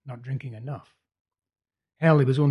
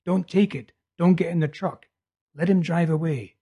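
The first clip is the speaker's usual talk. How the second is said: a raised, higher mock yell of warning; raised retold warning cry; retold shouting; 5 semitones higher, 6 dB louder than usual. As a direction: call out the warning, half shouted. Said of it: "I'm shouting".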